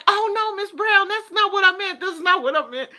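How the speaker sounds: high, loud flustered apology; apologetic doctor. Retold or imitated. A doctor apologizing to her patient, flustered and high. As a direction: rush to take it back, mock-flustered.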